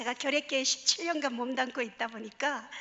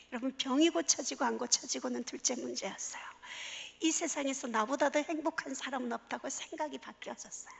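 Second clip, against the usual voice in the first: hushed testimony; 6 dB quieter than usual. Real, not acted.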